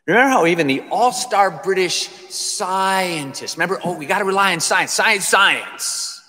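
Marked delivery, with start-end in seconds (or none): 3.8-6.2 quick, mocking echo of a slogan; mock-earnest chant of the believers; mocking imitation. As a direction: parrot it with mild scorn. Mocks those who trust science.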